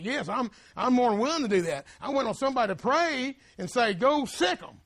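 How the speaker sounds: a preacher playing God, willing and ready; voicing God's eager reply. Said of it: "He said".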